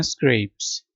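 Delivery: "स्क्रैप्स" said as "skrayps"; one syllable "स्क्रैप्स", vowel as in "say"; scrapes, long A. Shown as a demonstration. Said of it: "इसको पढ़ना है".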